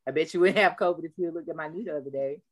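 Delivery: low, wry told-you-so; a friend's deadpan I-told-you-so; mock scolding. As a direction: scold him for ignoring the knee. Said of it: "that's what I'd have said".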